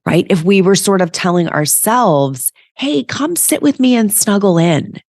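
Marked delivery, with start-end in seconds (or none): 2.7-5.0 high cooing voice, talking to yourself like a pet; sing-song pet voice. Pretend. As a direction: invite yourself to snuggle like a beloved dog. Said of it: "with that voice".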